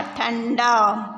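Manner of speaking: ठंडा drawn out very slowly; slow syllable reading. Shown as a demonstration. Teacher sounds out ठंडा for the class, very slowly. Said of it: "अगली line है ठंडा".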